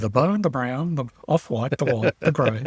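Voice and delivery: put-on lightly done old commentator calling colours; a hint of the Billy Birmingham take on Richie Benaud; Richie Benaud impression. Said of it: "we're all doing Billy Birmingham's version of Richie".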